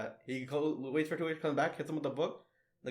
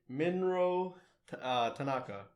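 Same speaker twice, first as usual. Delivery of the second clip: Japanese pronunciation; slower than usual. Pretend. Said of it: "so you're, uh, definitely part Japanese, right, with that pronunciation?".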